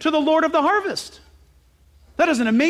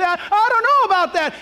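hesitant believer; 7 semitones higher, 4 dB louder than usual. Retold or imitated. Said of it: "You can say".

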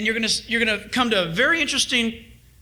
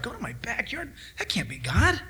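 hushed doubt; 6 dB quieter than usual. Pretend. Doubting listener's inner voice.

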